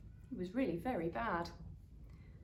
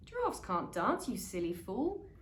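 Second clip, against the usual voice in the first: mocking taunt. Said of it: "the animals all laughed".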